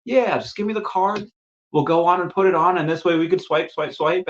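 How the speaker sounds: high-pitched, coaxing salesperson; put-on chirpy sales voice; sales patter. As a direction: imitate a server sweet-talking for the card. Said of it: "I've been in sales before".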